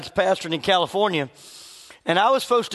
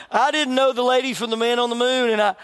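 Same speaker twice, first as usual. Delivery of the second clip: laughing; 3 semitones higher than usual. Real, not acted. Retelling a funny surprise.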